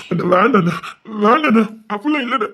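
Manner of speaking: tearful refusal. Acted.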